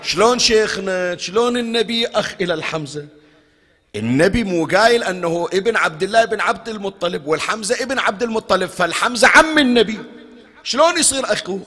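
high-pitched incredulous questioning; acted puzzled objection. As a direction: challenge the sheikh as a baffled listener. Voices a puzzled listener's objection. (اعتراض مستغرب بصوت عالٍ)

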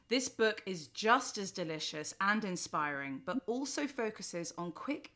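scripted host introduction; lifted openings, falling line endings; podcast intro. Real, not acted. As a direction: present the guest in a prepared read.

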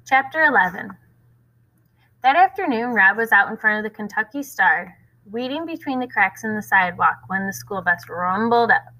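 steady read-aloud voice with voiced characters; story narration. A narrator's reading. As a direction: read the chapter to the class. Reads next chapter aloud.

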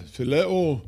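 put-on high, loud Greek-accented voice. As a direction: imitate George's Greek accent. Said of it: "I'm imitating his accent".

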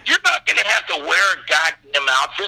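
comic exasperated outburst; exasperated reassurance. Retold or imitated. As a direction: imitate a director losing patience. Director's impatient reply, acted.

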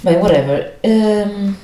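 hoarse, rough hangover voice; croaky morning-after voice; hungover voice. Real, not acted. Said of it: "com esta voz de bagaço".

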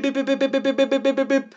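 high, quick mock beeping noises; playful imitated hacking beeps; computer beeps. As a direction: beep like a computer cracking a code. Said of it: "Es como si hackearas tu cerebro y pip".

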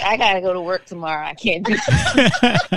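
laughing through a mock complaint; half-laughing protest; laughing quote. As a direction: giggle the words out, fast then dragging. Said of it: "And I was like".

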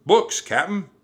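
high, loud pirate crewman; shouting down. A narrator's reading. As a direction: yell the report down to the captain. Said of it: "Pinky shouted down".

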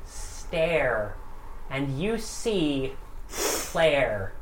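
slow, weighty scene setting; dramatic narration. A narrator's reading. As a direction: build the monster slowly. GM narrates transformation.

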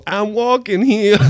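high, drawn-out mock holler; catchphrase yell. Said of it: "continuing to go".

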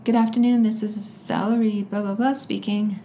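lightly imitated polite phone greeting. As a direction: answer like a well-brought-up child on the phone. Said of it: "we had to be very polite".

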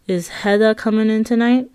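Hedda with a d, no th sound; Hedda for Heather. Retold or imitated. Narrator imitating Luciana's Hedda for Heather. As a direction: say Heather as Hedda, Boston style. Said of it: "the way she pronounced Heather's name".

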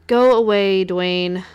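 loud, curt go away; sharp dismissal. Acted. Succubus ordering the vampire off, loud and curt.

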